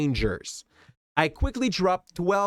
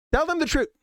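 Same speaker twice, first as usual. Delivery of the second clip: much higher, pleading insistence; inner voice insisting; 11 semitones higher, faster than usual. Retold or imitated. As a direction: plead it harder this time. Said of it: "a hitch that was telling me".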